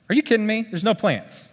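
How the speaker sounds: an impatient farmer shouting at empty soil; mock outraged shout. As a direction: yell in disbelief at a bare field. Imagined farmer's outburst.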